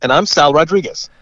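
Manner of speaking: distant, remote line; sounding far away from the mic. Real, not acted. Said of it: "you sound a little further away".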